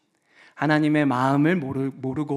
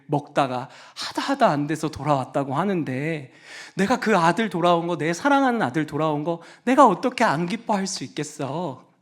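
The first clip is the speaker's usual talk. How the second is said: tender father. Acted. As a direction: plead gently with the hurt son. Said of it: "아버지가 이렇게 일하는 거예요".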